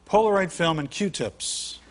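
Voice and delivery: slow, laughing punchline; chuckling slowly through the payoff; laughing reveal. Real, not acted. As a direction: drag out the reveal while laughing.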